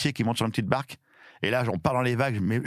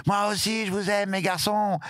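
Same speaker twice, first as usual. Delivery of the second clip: high, slow, overcome call; retold emotional shout; 9 semitones higher, slower than usual. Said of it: "j'ai crié". (cri ému rejoué, aigu et lent)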